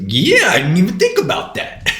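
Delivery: high, loud retold outburst; imitating excited realisation. Retold jail friend's sudden realisation.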